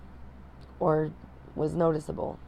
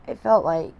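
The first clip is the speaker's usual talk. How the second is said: holding back tears; 3 semitones higher, 7 dB quieter than usual. Real, not acted. New mom confessing postpartum struggles to viewers, close to tears. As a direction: voice straining as tears come, long pauses.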